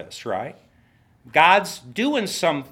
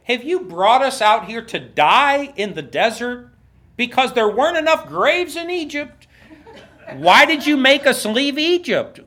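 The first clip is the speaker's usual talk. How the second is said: mock whining, raised and high; whiny complaint; 5 semitones higher than usual. Israelites whining at Moses, hammed-up whining. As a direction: whine it like a fed-up crowd. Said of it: "they say".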